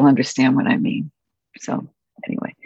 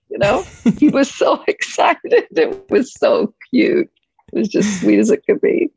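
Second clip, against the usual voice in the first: tearful fondness; 8 semitones higher than usual. Real, not acted. Tearful fond memory.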